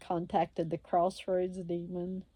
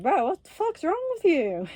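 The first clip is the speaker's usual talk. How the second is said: much higher, louder disbelieving yell; exasperated outburst; 11 semitones higher, 7 dB louder than usual. Real, not acted. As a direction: blow up at him in disbelief.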